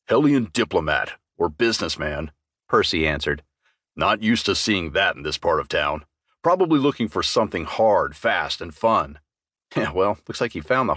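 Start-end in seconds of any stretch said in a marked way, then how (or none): 0.1-9.2 deep, gruff troll barkeep; low and weary, a bar-owning troll; troll barman, lower and unbothered; troll bartender. Acted. Troll bartender Percy voiced.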